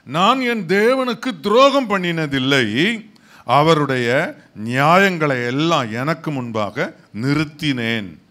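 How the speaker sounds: emphatic verse reading with long-held phrase endings; ringing pulpit recitation; scripture declamation. Real, not acted. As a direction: proclaim each phrase firmly, pausing between them. Reads scripture aloud emphatically.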